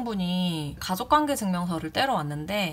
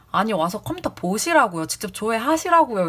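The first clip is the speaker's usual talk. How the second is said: 1 mild retold shouting back; 3 semitones higher, 3 dB louder than usual. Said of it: "엄청 큰 소리로 서로 이렇게 싸우게 된 거예요".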